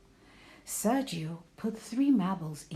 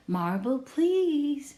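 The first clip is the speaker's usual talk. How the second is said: higher and louder, bright request; mom's voice; 8 semitones higher, 5 dB louder, slower than usual. A narrator's reading. Mom asking Sergio for a marble, high and louder. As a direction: mom prompting, lifting the pitch. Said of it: "said Mom".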